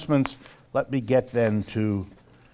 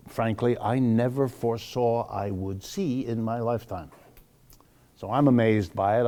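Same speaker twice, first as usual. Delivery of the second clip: normal talking voice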